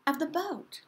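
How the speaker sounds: put-on high, loud eager girl; girl offering to row, eager; eager Tina. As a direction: pipe up eagerly. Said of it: "said Tina".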